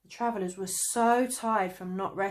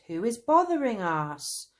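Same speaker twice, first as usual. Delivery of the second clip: loud pleading; crying out; 4 semitones higher, 7 dB louder than usual. A narrator's reading. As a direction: demand it loudly. Travellers crying out.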